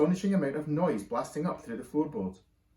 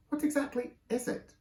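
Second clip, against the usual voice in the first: nervous question; 11 semitones higher than usual. A narrator's reading. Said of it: "asked Missus Large nervously".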